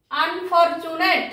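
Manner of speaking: আনফরচুনেট slowly, as one joined word; pronunciation demo. Shown as a demonstration. Teacher giving the word's pronunciation, slow and joined. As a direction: stretch out আনফরচুনেট without breaking it up. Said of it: "উচ্চারণটি হলো".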